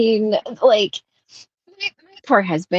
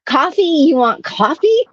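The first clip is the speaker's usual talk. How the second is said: mock outrage at a coffee request; incredulous; 5 semitones higher than usual. Incredulous retold reply.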